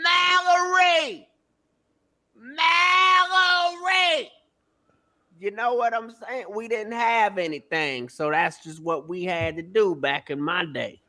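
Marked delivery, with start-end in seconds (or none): 0.0-4.3 mock, very high, drawn-out hollering hoot. Recalling calling out across the walkway with no phone, imitating hooting and hollering. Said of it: "So I was just hooting and hollering like".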